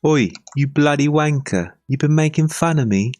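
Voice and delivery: high, hammed-up angry Brit; over-the-top British wanker rant; mock British accent. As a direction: bark it like an offended British lad. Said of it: "me doing an impression of British".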